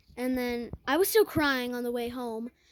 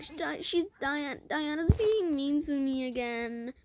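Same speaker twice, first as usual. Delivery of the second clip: whiny crying voice. Retold or imitated. Crying to mom in car.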